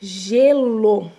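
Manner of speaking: Gelo with the G held like J; clear demo word. Shown as a demonstration. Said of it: "O G tem som de J". (Gelo falado com clareza, G como J)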